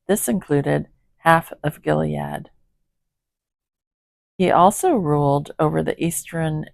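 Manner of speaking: measured, even Bible reading; scripture reading. Acted. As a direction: read the passage steadily aloud. Reads Bible passage aloud.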